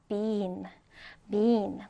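careful model reading of "bean"; model pronunciation. Shown as a demonstration. Teacher modelling "bean" for learners, careful pronunciation. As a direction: say "bean" as a clear, separate word to copy. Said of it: "자, 발음해볼까요?".

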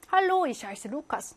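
Mein Name ist Anna read slowly and clearly; slow German reading. Shown as a demonstration. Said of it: "이런 문장인데요".

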